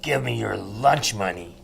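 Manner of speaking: growling bully creature. Acted. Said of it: "the whim is saying".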